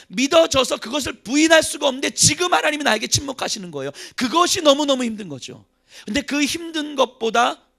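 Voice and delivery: loud, high impassioned cry; preaching at full force. Real, not acted. Preacher crying out God's silence, loud and high. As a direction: cry out the anguish.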